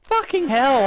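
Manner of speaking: loud, high cry of frustration; exasperated shout. Real, not acted. Streamer cut off by Verstappen, loud exasperated shout. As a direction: yell as he gets cut off. Rival cuts in front.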